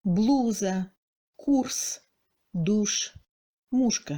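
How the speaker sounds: blouse, course in Russian with a full French-like ou; douche, mouche as Russian "doush, moushka", stressed ou. Shown as a demonstration. Teacher gives examples of accented Russian ou. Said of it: "correspond au phonème ou français".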